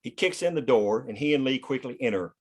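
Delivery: normal talking voice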